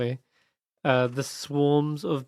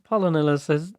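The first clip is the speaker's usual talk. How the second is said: usual speaking voice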